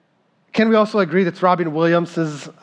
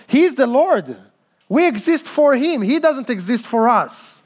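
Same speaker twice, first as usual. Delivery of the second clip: preaching climax; 6 semitones higher than usual. Real, not acted.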